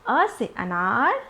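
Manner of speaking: slow, spaced revision chant of अ words; teacher leading a slow revision drill; slow drill recitation. Shown as a demonstration. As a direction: recite each word slowly like a classroom drill. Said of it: "फटाफट से revision करते हैं".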